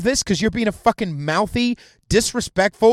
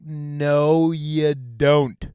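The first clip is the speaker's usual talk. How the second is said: drawn-out rebuttal; 4 semitones lower, much slower than usual. Acted. Drawn-out rebuttal to retold objection.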